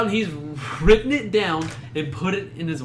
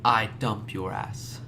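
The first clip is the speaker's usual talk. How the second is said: impression; 8 semitones lower, 6 dB quieter, much slower than usual. Shown as a demonstration. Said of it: "I'm gonna do it again".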